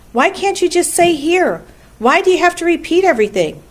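high-pitched, impatient questioning; exasperated spider. A narrator's reading. Charlotte scolds the gander for repeating, high and exasperated.

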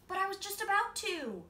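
put-on high, loud childish protest; boy protesting. A narrator's reading. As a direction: whine a child's excuse.

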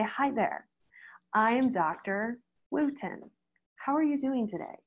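soft, slow and gentle; calm greeting. Shown as a demonstration. Vet greeting a panicking client, soothing. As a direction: greet them to settle them. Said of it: "You can say".

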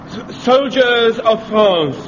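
slow, lightly voiced romantic French farewell; a mild stab at Boyer's lover voice; Charles Boyer impression. Pike doing Boyer for his platoon, slow and mild. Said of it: "do an impersonation of Charles Boyer".

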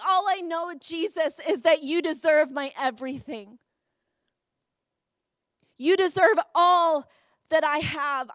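fervent prayer. Retold or imitated. Re-enacts her teenage prayer to God.

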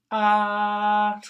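a big, loud, high "Ah"; fun loud ah. Acted. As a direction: shout out "Ah" as if it's a game. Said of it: "had lots of fun saying".

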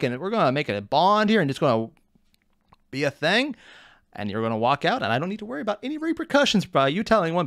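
put-on loosely improvised Southern accent; oversharing stranger with a vague Southern accent. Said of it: "I have no idea what accent I was using, but I'm assuming it was Southern".

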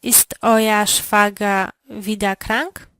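usual speaking voice

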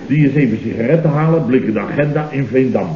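casual cover story, glancing at a diary. Shown as a demonstration. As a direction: sell the lie convincingly. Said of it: "Maak het overtuigender".

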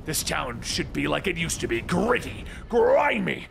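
high, drawn-out theatrical ranting; shouting Joker. A narrator's reading. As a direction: rant in mock sorrow and outrage. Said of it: "with the Joker shouting".

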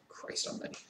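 sighed, breathless whisper; exasperated whisper. Real, not acted. Fed-up reviewer to his viewers, whispered in real exasperation. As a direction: let it out under your breath in disbelief. Exasperated sigh after rant.

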